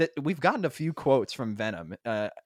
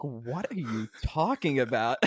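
mock bafflement; 2 semitones higher, slower than usual. Friends baffled by his misquote.

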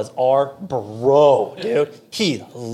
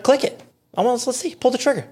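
daring brother; 9 semitones higher than usual. Retold or imitated. Brother daring him, retold.

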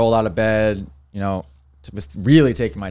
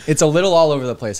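laughing through the words; 5 semitones higher than usual. Real, not acted. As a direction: chuckle while admitting it. Laughing admission about scoring.

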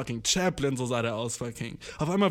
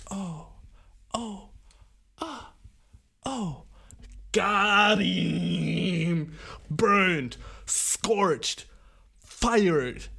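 triumphant; 4 semitones higher, much slower than usual. Real, not acted. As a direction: crow over the win. Celebrating his comeback.

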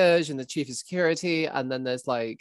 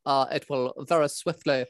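a mild, underwhelming baddie voice, unhurried; Brian Butterfield impression. Jay Bozo greeting agents in a lightly done Brian Butterfield voice. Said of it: "impression of a character called Brian Butterfield".

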